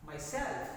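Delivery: "Myself" with extra force on "self"; stress on second syllable. Shown as a demonstration. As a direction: model it as my-SELF. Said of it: "See where the extra force".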